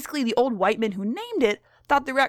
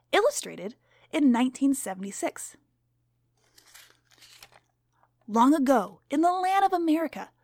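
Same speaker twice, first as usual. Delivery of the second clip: lightly voiced stern schoolteacher; strict teacher; 3 semitones higher than usual. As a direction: read to the class as a stern teacher.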